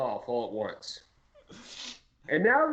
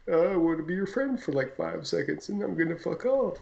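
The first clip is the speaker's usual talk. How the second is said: bumblebee impression. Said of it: "Is that your bumblebee impression?".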